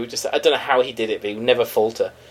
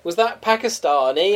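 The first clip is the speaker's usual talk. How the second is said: mock teasing; 5 semitones higher, slower than usual. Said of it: "somebody does an accent".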